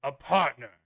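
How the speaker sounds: a hint of a stern royal knight; booming warrior king. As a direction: address recruits with solemn authority. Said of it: "very kind of stern royal voice".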